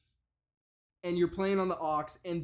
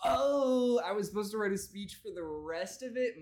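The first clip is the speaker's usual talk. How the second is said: mock sudden realization; 4 semitones higher than usual. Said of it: "then he's like".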